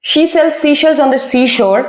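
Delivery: "She sells seashells on the seashore" said slowly, every sh and s clear; slow it right down and keep sh apart from s; slow tongue twister. Shown as a demonstration. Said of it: "So इसे improve करना बहुत जरूरी है".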